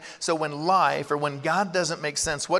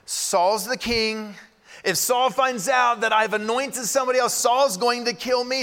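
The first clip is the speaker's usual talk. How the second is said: Samuel alarmed; 5 semitones higher than usual. Retold or imitated. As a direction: play Samuel caught off guard and scared of Saul. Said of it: "Samuel's going".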